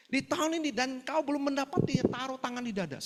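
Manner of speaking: high-pitched preacher's call to the congregation; preacher delivering a sermon. Retold or imitated. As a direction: imitate a pastor preaching on TV. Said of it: "karena dia khotbah itu ya".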